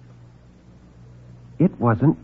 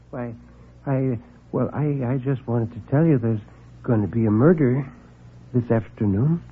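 soft, halting, much quieter; timid little man; 6 dB quieter than usual. Acted. Nervous visitor confessing to reporter, soft and halting. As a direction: stammer it out, shy and small.

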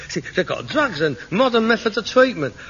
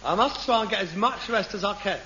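put-on weariness; 6 dB quieter than usual. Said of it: "I'm very tired".

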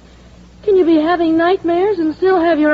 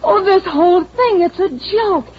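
excited; 5 semitones higher than usual. Acted. Excited realisation of joke.

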